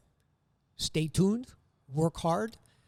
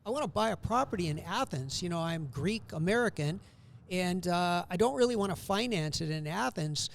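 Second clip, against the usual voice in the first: put-on New York accent; 4 semitones higher than usual. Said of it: "I hear this guy in this New York accent say".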